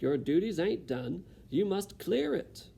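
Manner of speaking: bossy cook. Acted. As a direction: order her about. Cook ordering Mig.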